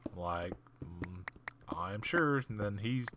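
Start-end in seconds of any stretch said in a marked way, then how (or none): 0.8-2.4 sarcastic doubt. Retold or imitated. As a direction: drag it out, not believing. Doubting other guard.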